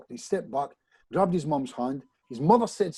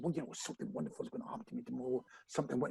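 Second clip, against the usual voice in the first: fast, much softer, reluctant affirmation; embarrassed mumble; 2 semitones lower, 12 dB quieter, much faster than usual. Retold or imitated. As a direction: mumble it hoping to be let off. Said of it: "So I said".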